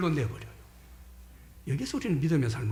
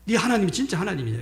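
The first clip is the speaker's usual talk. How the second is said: higher-pitched, jeering challenge; mocking taunt; 6 semitones higher than usual. Enemy general jeering at the king about his God, mocking taunt. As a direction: taunt them as an enemy envoy would. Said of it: "뭐라고 조롱을 해요?".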